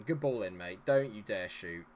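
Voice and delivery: normal talking voice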